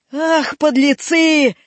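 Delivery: slow, hoarse exclamation; hoarse old voice. Acted. Old man scolds the boys, hoarse old voice. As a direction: drag it out in a husky old voice. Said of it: "раздался сиплый голос".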